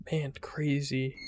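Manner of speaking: slow awed whisper. Real, not acted. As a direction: breathe it in awe.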